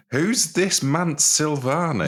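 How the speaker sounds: mock confusion. Co-host interrupts mocking.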